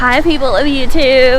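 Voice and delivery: put-on light Valley Girl greeting; Valley Girl accent. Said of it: "el Valley Girl accent".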